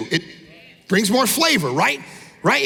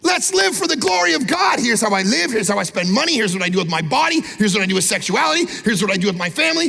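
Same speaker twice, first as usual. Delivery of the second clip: excited call. Retold or imitated. Christian entering a room, calling out excitedly. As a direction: fire up the room with every line. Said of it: "are you walking in a room going".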